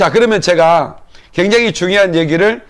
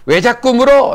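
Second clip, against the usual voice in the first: higher, mock-annoyed retort; annoyed snap; 5 semitones higher than usual. Little girl fed up with the boy's question, mock-annoyed retort. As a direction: sound like a child who's had enough. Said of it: "이제 짜증을 확 내는 거예요".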